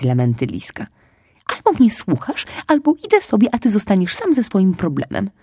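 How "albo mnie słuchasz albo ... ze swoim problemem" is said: louder and higher over the wailing; loud, firm. Acted. Squirrel raises her voice to drown out the fox's wailing, loud and firm. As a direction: shout him down firmly. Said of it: "powiedziała głośno, chcąc przekrzyczeć".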